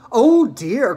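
high, loud exclamation of dismay; cried out. Acted. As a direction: exclaim as a boy watching disaster. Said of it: "cried Charlie".

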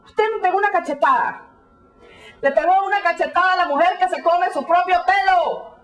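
forceful, hammered Spanish announcement; declaimed outburst. Acted. Announcing a slap to the hair-eating woman, declaimed. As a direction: hammer out every beat of the accusation.

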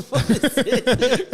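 hammed-up what-is-it; mock challenge. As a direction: stretch it out like squaring up. Retold confrontation the next day.

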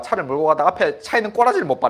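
quick, laughing through the words; amused confession, sped up with laughter. Real, not acted. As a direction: rush it out with a chuckle. Laughing at his own road rage.

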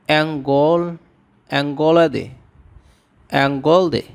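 অ্যাঙ্গলদে built up as অ্যাঙ্গল then অ্যাঙ্গলদে, clear ng; Tamil word modelled. Shown as a demonstration. Teacher building a Tamil word for viewers, careful pronunciation. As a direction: say the root, then the full word. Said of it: "এর তামিল উচ্চারণ হবে".

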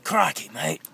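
put-on terrible Australian accent. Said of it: "It's terrible".

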